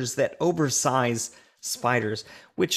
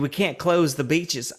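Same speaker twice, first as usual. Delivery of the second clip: put-on half-hearted British accent; attempted British accent. Host quoting the Jaws ripoff, attempted British accent. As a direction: slip lightly into a bad British accent. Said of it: "why I'm talking a British accent".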